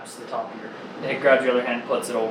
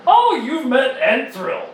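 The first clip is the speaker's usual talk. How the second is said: high, drawn-out, louder exclamation; excited recognition; 10 semitones higher, 5 dB louder, slower than usual. Acted. Mentor jumps up on hearing of the visitor, excited. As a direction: jump up delighted at the name, stretching it out. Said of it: "he jumps up and goes".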